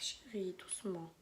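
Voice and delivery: soft, low aside; gentle hushing. Real, not acted. Mother quietly telling her child to go easy, gentle hushing. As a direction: drop low and soft to calm a little one.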